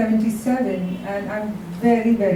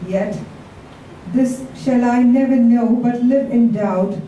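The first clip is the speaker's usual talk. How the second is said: poem recital. Acted. Reads Shakespeare sonnet aloud.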